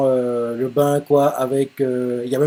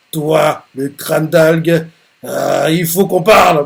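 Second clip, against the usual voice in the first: mild angry threat; slower than usual. Acted. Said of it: "il est énervé, il fait".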